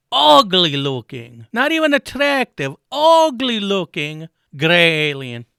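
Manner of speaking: angry rant. Acted. Ranting at Zuckerberg.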